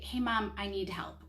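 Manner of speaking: calm, even ask for help; the tone a parent models for a child asking for help; calm modeled request. Shown as a demonstration. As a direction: ask Mom for help calmly and politely. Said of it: "I give them the tone and the words to say".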